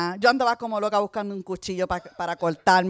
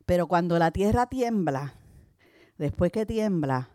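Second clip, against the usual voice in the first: prédica pausada y enfática; predicación. Acted. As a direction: exhorta a la iglesia con calma firme. Predica a la congregación. (predicadora exhorta a la congregación a quitar su piedra, pausada)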